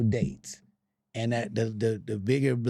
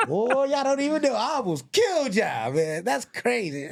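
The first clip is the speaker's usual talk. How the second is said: retold barber; 9 semitones higher than usual.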